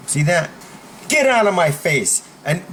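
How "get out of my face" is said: firm order; standing up firmly. Shown as a demonstration. Coach demos talking to a bully, firm order. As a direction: send them away decisively. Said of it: "You talk like that".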